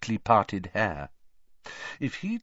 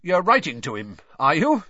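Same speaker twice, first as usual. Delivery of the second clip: would-be calm; 5 semitones higher, 7 dB louder than usual. Acted. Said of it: "in a would-be calm voice".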